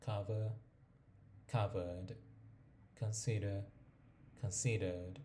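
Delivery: British English, no final r in offer, cover, consider; British accent, non-rhotic endings; British pronunciation. Shown as a demonstration. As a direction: drop the r like a British speaker. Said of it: "Primero empezamos con la británica".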